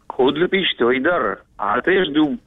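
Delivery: backwards speech. Shown as a demonstration. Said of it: "скажи вот наоборот".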